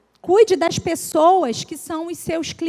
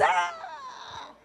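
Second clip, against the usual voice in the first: beaming ah; 12 semitones higher, 8 dB quieter than usual. Retold or imitated. Mimics big smiling exclamation.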